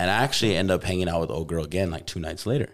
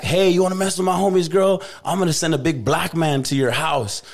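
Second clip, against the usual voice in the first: mock threatening texter; 9 semitones higher than usual. Reading out the ex's threatening texts, a hammed-up thug voice. Voicing threatening text messages.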